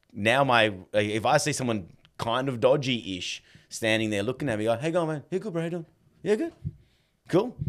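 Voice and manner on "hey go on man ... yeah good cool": high, bright friendly hello to a stranger; greeting a passer-by in a much higher, cheery voice. Retold or imitated. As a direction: chirp it out, overly friendly.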